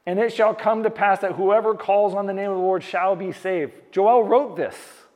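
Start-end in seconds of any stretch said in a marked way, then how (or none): 0.1-3.7 pavitra vachan ko saaf aur thode ooncha swar mein padho; scripture reading. Shown as a demonstration. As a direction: shall par halka zor dekar vachan sunao. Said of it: "he says".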